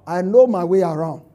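smug self-sufficient talk to God, lightly voiced; mock the self-reliant, lightly; proud prayerless boast. Preacher mocks a prayerless person, lightly smug. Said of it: "you are saying".

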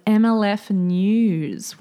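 slow, deliberate segment title; announcer intro. Acted. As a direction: announce the segment like a show opener. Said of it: "segment announcement".

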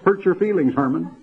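high, whimpering, hammed-up sobbing plea; mock crying Hitler. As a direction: whine it like a blubbering coward. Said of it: "Hitler would have cried".

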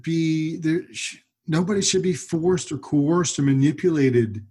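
choked up, pushing through; quiet weeping. Real, not acted. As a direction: voice catching, holding back tears. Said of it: "I'm just getting emotional".

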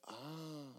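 long soft "ah"; drawn-out, very quiet sigh; mock sigh. And he went.

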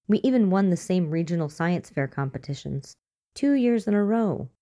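a hint of a stubborn young girl. Hannah, child, voiced arguing.

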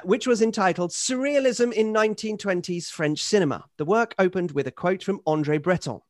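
emphatic, articulate reading of a grand letter; email read aloud. Acted. Host reads Henry's fulsome praise of the pod, formal read-aloud. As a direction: read it out with rhetorical lift on key phrases.

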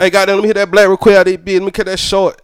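fast, run-together Georgia slang; Georgia accent. Shown as a demonstration. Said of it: "if I start talking like that".

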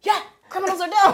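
high and loud with laughter; giggled mock cop; laughing punchline. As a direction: deliver the cop's line while cracking up. Officer's punchline.

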